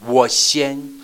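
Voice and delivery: put-on high, loud eager kid shouting; child calling out to go first. Shown as a demonstration. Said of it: "就是说".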